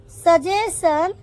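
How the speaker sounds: slowed repeat. Shown as a demonstration. Teacher modelling सजेशन for the class, slow and rising. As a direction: say सजेशन slowly with a rising end.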